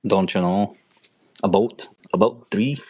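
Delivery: mock northern accent sliding toward Scottish; playful, borderline-Scottish accent. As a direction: put on a Midwest accent that drifts Scottish. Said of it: "I get my borderline Scottish".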